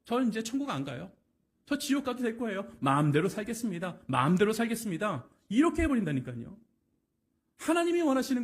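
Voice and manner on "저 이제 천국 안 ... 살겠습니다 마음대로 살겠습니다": cool, dismissive brush-off; cold indifference. Retold or imitated. People coldly refusing God's call, mock dismissive. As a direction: shrug off the invitation coldly. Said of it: "냉정하게".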